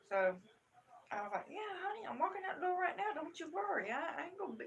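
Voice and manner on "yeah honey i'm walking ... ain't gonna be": higher-pitched, hurried soothing of a daughter; acted reassurance. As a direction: reassure your kid you're already on the way, pitched up. Mother reassuring daughter over the phone.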